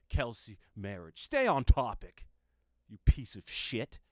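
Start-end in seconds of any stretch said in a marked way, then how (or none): 1.2-4.0 loud scolding, breaking into a laugh; playful teasing insult. Acted. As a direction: scold him then laugh. Co-host mock-scolding the host.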